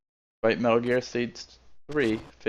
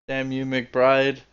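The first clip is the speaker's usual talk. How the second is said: dramatic curse; 4 dB louder, much slower than usual. Acted. Acted curse at the traitor.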